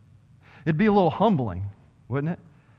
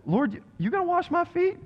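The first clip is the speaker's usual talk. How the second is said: Peter incredulous; 13 semitones higher, 3 dB quieter than usual. Acted. Peter questioning Jesus, acted quote.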